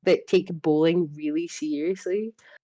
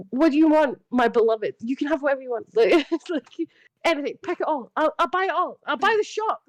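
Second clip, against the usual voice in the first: rising higher and higher into giddy squeals; building doting gush; 8 semitones higher than usual. Retold or imitated. Aunt offering to buy the whole shop, giddy and climbing higher. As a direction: spoil her more with every line until you squeak. Aunt spoiling niece, escalating.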